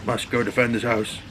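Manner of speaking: mock solemn guard dog; a dutiful pretend knight; dog's inner voice. Voicing the dog's thoughts, mock solemn. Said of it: "He's like".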